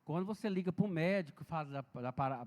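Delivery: normal talking voice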